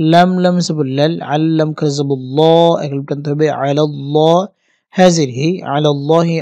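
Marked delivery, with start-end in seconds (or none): 3.6-6.4 thick, rounded "ল্লা" in "আলাল্লাহি"; heavy Allah. Shown as a demonstration. Teacher shows the Allah rule, "আলাল্লাহি" pronounced heavily. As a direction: say the "ল্লা" of "আলাল্লাহ" full and dark. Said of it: "মোটা করে উচ্চারণ করতে হবে".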